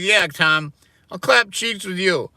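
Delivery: high, loud mocking impression of a self-righteous girl; mocking girly voice. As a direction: ham up a smug girl. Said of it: "my impression of a girl who thinks she's a good person".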